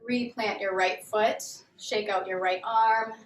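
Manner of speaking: calm, measured yoga instructor voice; guided yoga. Real, not acted. Yoga teacher leading students through a grounding warm-up, calm guided delivery. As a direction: guide them gently through each movement, leaving long pauses.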